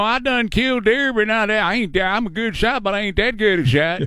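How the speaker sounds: lightly voiced country hunter; a hint of a drawling good old boy; imitating the hunter. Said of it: "the thing is full of lines".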